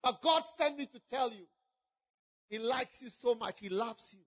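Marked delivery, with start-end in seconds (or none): 2.5-4.2 tender. Acted. Preacher tells God loves them.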